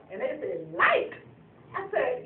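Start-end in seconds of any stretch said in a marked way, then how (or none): 0.7-1.1 high incredulous rise; surprised question. Retold or imitated. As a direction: ask it in disbelief. Friends questioning.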